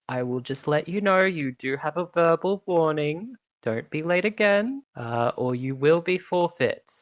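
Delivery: high, pompous announcer hushing a crowd; announcer Sundancer. Acted. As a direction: settle the rowdy crowd with authority.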